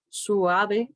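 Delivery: "suave" in three syllables, su-a-ve; "suave" with its diphthong broken into two vowels; diphthong split. Shown as a demonstration. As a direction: separate the u from the a in "suave". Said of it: "se produce esa separación".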